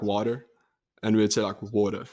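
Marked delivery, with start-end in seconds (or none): 0.0-0.5 "water" in an American accent; American-style "water", lilting up at the end; American pronunciation. Shown as a demonstration. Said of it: "They would say, like". 1.6-2.0 "water" in a South African accent; South African "water", vowel set low; South African pronunciation. Shown as a demonstration. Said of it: "It's, like, much lower".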